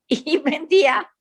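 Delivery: a short laugh running into the words. Real, not acted. Telling the group about her father, laughing.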